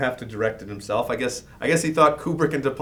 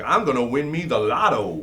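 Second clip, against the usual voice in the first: put-on southern accent. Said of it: "do a dumb guy voice and it's a southern voice".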